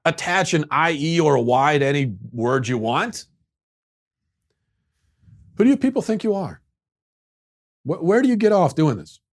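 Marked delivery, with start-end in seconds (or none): 5.6-9.2 high, fast indignant rant; hammed-up fury at Australians; mock outrage. Ranting at Australians in hammed-up fury.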